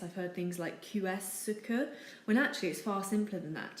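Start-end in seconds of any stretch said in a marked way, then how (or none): 0.8-1.9 Q S CE QUE with letters sounded out, "kyoo-ess"; mispronounced variation. Retold or imitated. Teacher imitating variations heard, mispronounced French. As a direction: say Q S CE QUE as an English-style misreading. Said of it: "I hear all kinds of variations".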